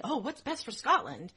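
mock public-spirited concern. Nobles pretending to care for the country, mock concern. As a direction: put on a little civic-minded concern. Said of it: "They weren't going".

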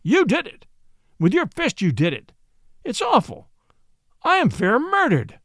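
high, hammed-up outrage; mock outcry. A narrator's reading. Watson shows the judge how a staged victim wails, hammed-up. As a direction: wail like a wronged victim, staged. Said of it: "cried Watson".

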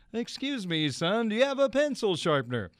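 lightly imitated radio announcer; Vin Scully impression. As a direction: savor the famous voice, politely asking. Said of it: "That's the voice".

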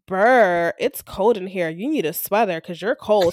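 mock-cutesy corny joke. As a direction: imitate a coworker's lame quip. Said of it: "Something, like, real corny".

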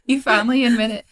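high gushing voice, laughing through it; mock gushing fan. Pretending to be a fan who is thrilled for the hosts, laughing.

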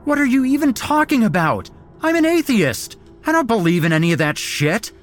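high, loud, fast outraged protest; panicked captive shouting back; frantic shouting. A narrator's reading. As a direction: yell your disbelief at them. Captive arguing with cult.

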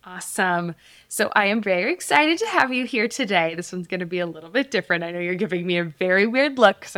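polished host intro; podcast voice. Real, not acted. Mom introducing her daughter as guest, podcast voice. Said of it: "talking to you in my podcast voice".

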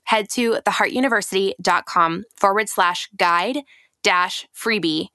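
confident promotional read. Acted. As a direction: sell the free guide. Ad read continues.

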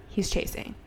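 whispered. Retold or imitated. Urgent aside while walking out.

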